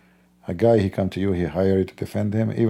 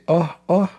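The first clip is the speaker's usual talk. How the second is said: yawn imitation; 7 semitones higher than usual. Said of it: "For when he say".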